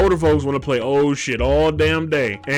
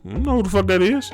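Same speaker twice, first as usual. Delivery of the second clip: higher, fast, bewildered reply; quick clueless answer; 5 semitones higher, faster than usual. Retold or imitated. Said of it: "And they go".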